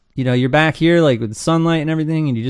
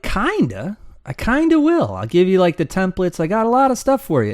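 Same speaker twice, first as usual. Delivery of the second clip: higher, eager mock reassurance; playfully high promise to help; excited reply; 6 semitones higher than usual. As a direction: chirp it like an eager helper. His own excited reply, acted.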